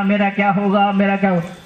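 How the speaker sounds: mock loud wailing. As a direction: wail it like a child crying for a toy. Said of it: "जोर जोर से रोने लगे".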